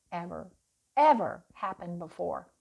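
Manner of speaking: normal talking voice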